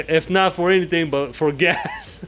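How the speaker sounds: real chuckle breaking into the words; laughing. Real, not acted. Vlogger joking about needing money for gas, laughing. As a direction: say it through a rueful laugh. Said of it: "I'm laughing".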